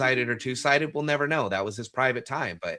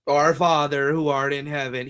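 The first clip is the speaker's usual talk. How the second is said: formal recited prayer; 3 semitones higher, 6 dB louder than usual. Retold or imitated. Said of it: "very rarely would sit down and".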